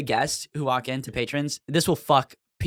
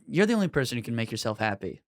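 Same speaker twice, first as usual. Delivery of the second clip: lower, softer, gently even delivery; mildly kind, understated reassurance; a little nicer; 5 semitones lower, 4 dB quieter than usual. Retold or imitated. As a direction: counsel a customer kindly, keeping it low. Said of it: "sometimes I'm a little nicer about it".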